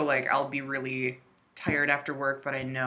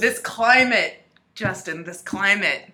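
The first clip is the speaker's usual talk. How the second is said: mock ominous warning; 4 semitones higher, 4 dB louder, slower than usual. Mock solemn warning about climate.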